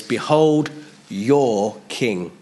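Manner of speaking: slow, weighty announcement; slow proclamation. Retold or imitated. Pilate offers their king to the Jews, slow and heavy. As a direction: hold each word of the proclamation. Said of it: "Now he says".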